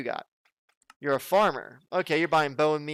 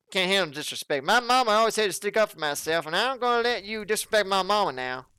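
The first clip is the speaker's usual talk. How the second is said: put-on Southern accent; 5 semitones higher than usual. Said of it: "southerner impression I'll make".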